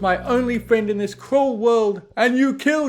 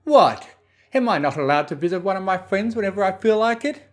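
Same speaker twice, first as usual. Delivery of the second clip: quick, huffy and offended, a hint louder; huffy indignant question; 6 semitones higher, 7 dB louder than usual. A narrator's reading. Discord huffily protests to Twilight, fast and indignant. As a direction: protest being unwelcome, fast. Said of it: "he questioned".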